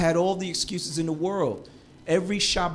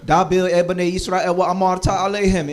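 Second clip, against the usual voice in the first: louder, confident chanting Hebrew verse; fluent proud Torah reading; 6 dB louder than usual. Retold or imitated. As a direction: show off the now fluent reading. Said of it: "I was".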